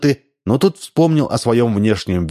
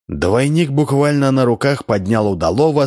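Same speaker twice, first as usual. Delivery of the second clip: plain reading voice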